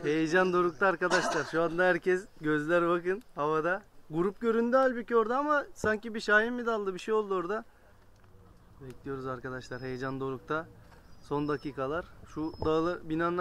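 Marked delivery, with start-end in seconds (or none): 0.0-7.6 loud, thrilled commentary with a laugh; rising excitement, eyes on the sky; excited. Real, not acted. Tense wait for arriving pigeons.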